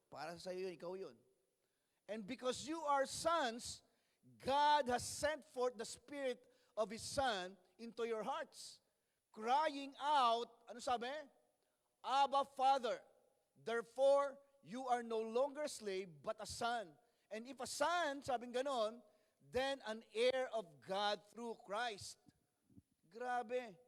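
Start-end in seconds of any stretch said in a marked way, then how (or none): 2.1-10.5 slow, emphatic Bible reading; measured pulpit reading with drawn-out key words; scripture reading. Real, not acted. Reads scripture aloud to congregation. 12.0-22.2 slow, emphatic Bible reading; measured pulpit reading with drawn-out key words; scripture reading. Real, not acted. Reads scripture aloud to congregation.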